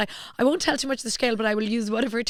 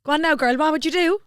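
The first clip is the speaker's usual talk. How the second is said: higher-pitched put-on Cork voice; Cork accent; 5 semitones higher, 4 dB louder than usual. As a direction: coax in a singsong Cork accent. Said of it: "your best Cork accent".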